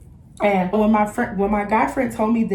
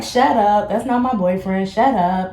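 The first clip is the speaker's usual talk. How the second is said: playful denial. Retold or imitated. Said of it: "I'm just talking my shit".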